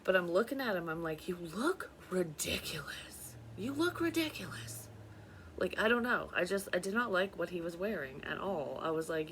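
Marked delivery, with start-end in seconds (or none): 1.3-4.9 retold taunt, stretched slow then pitched up; mocking. Mocking his outfit in retold dream.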